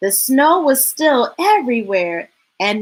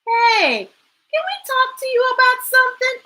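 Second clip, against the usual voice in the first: characters talking; 4 semitones higher than usual. Acted. Characters chatting.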